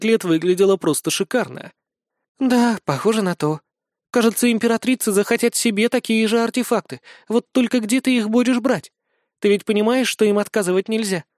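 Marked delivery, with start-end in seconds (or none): 2.4-11.2 lightly voiced young noblewoman; a touch higher, a worried bride; young woman voice. Alina voiced by narrator.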